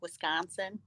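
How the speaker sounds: "Wisconsin" in a soft local Wisconsin accent. Shown as a demonstration. Guest asks hosts for the actual accent, Wisconsin accent. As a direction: model the Wisconsin accent on "Wisconsin", softly. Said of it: "like, the actual Wisconsin accent".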